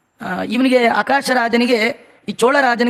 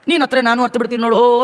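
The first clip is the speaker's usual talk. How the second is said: mock wailing mother; much faster than usual. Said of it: "ಮಗುಗಿಂತೂ ಜೋರಾಗಿ ಅಳ್ತಾಳೆ".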